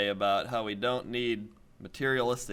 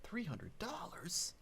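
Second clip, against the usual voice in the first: mock surprise; 9 semitones higher, 13 dB quieter, slower than usual. Mock astonishment at price.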